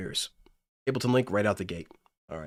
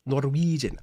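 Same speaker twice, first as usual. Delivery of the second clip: lightly put-on Norwegian accent; a playful touch of Norwegian accent; mock Norwegian accent; 3 semitones higher, slower than usual. Streamer toying with the word, light mock Norwegian accent. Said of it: "like, a Norwegian accent".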